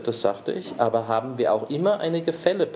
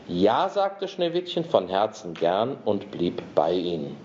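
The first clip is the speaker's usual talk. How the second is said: fairy tale reading; 2 semitones higher than usual. Acted. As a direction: read it like a bedtime tale. Reads Snow White aloud.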